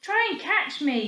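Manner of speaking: high, loud call; boy shouting to Amber to catch him. Acted. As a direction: yell across to her. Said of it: "he shouted".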